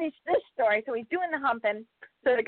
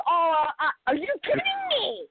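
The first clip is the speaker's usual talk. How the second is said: high, laughing are you kidding me; laughing disbelief; 7 semitones higher than usual. Retold or imitated. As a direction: crack up in disbelief.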